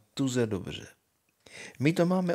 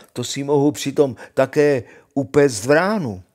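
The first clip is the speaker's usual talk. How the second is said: Honza dál hlasitě a nadšeně; pokračuj v hlasitém zvolání; 2 semitones higher, 8 dB louder than usual. Acted. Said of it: "zvolal Honza". (hlasitá radostná nabídka)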